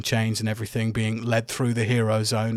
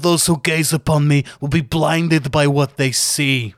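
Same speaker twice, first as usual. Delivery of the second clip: boastful villain promo; 3 semitones higher, 3 dB louder than usual. Acted. Volok taunting Titus, louder heel-wrestler promo. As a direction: gloat like a trash-talking champion. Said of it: "and he says".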